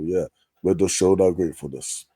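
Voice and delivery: ordinary talk, nothing marked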